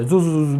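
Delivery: quick repeated "zoo" whizz; imitated whizzing. Shown as a demonstration. Teacher showing mud fly off a bicycle tyre, imitated whizzing. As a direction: mimic mud flying off a spinning tyre.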